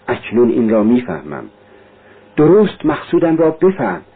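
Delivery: put-on a young man wrestling aloud with his guilt; Raskolnikov. Confessing to Sonya, lightly voiced tormented young man.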